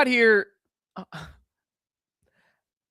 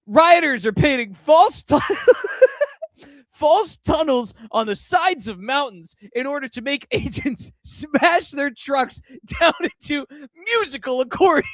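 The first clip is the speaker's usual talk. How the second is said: laughing while reading; 3 semitones higher than usual. Real, not acted. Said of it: "one of the best quote tweets I've ever read".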